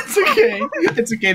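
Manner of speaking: trying to say it through laughter; giggling it's okay; laughing. Real, not acted. Laughing reassurance.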